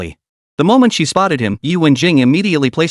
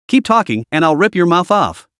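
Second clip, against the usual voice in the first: threatening warning; 2 semitones higher than usual. Acted. After the slap, warning the sneering rival. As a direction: warn him off with a hard edge. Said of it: "Qin Yuan warned".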